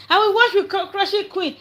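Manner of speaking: lampoon a big man making a grand offer; mocking Otumba. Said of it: "Otumba just came out".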